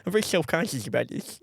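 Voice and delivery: mock-earnest lisped protest; put-on lisp. Prankster telling friend it is an impediment, lisping. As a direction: lisp heavily while insisting it is real. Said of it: "put on this retarded fucking lisp".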